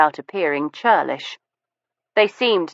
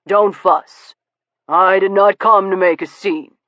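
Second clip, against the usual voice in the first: sincere; 3 semitones higher, 4 dB louder than usual. A narrator's reading. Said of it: "with every appearance of sincerity".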